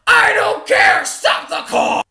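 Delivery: loud, high panicked shout; frantic yell. Retold or imitated. Yelling back at mom on the highway, frantic shout. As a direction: yell it back without caring. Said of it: "I'm like".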